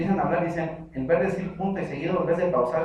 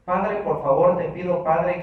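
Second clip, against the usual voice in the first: mock repetitive prayer; 5 dB louder, slower than usual. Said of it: "oran así".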